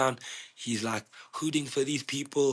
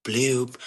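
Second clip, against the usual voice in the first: short imitated siren blip; quick mouth-made "bloop"; imitated police siren bloop. Mimicking cops pulling up on the painters, siren bloop.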